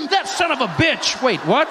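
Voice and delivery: mock shock at the news; gasping outrage. Shocked reaction to the ad.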